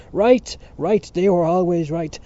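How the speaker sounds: high, loud insistent outburst; heated cry. A narrator's reading. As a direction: cry out in fierce agreement. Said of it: "cried to Mister Casey".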